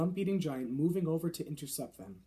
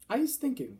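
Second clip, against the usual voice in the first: suspicious giant; 9 semitones higher, 4 dB louder than usual. A narrator's reading. Giant accusing the BFG.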